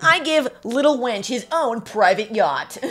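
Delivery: slow, laughing through it. Real, not acted. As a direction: giggle out the words. Laughing at dog fantasy.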